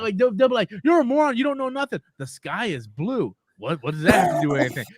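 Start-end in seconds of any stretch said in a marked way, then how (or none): 0.8-2.0 raised voice of an irked troll; mock pissed off. Imitating a commenter attacking the video maker, mock angry. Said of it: "they will get so pissed off". 2.2-3.3 slow, low non sequitur; acting dumb. Answering an insult with something stupid, playing dumb. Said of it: "just change the topic and say something stupid".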